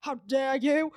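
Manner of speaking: mock-outraged put-on voice with rising end; funny affronted voice. Imitating men slapping each other, mock affronted. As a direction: play the slapped gentleman, lightly hammed. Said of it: "in different funny voices".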